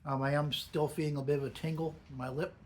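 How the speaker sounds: speaking around a pinch of dip; lip full of dip. Real, not acted. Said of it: "even with me talking".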